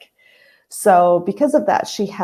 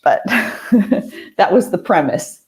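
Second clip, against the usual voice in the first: laughing; 2 semitones higher, slower than usual. Real, not acted. Laughing at the Jane the Virgin premise.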